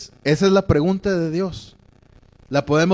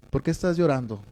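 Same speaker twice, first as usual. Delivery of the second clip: softer, gently falling question; lightly acted comforting father; tender fatherly concern; 5 dB quieter, faster than usual. God asking a crying Moses as a father would, gently concerned. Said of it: "así lo veo porque ese es el padre".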